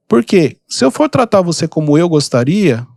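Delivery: normal talking voice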